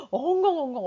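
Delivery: mock bawling; imitated child wailing. Speaker as a child scolded by mother, mock wailing. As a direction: act out a scolded kid's sobs. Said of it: "엄마한테 혼나서 우는데".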